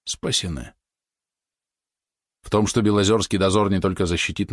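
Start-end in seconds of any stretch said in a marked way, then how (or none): 0.0-0.7 much softer, breathed out; шёпот облегчения; relieved whisper. A narrator's reading. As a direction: sigh out the word in relief. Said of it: "прошептал облегчённо".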